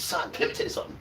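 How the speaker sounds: hushed confession-box voice of the priest; whispered priest quote. Retold or imitated. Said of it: "Father get begs and says".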